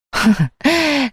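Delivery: short scoffing laugh; a dry mocking laugh; scornful little laugh at him; sarcastic laugh. Wife mocks husband's accusation.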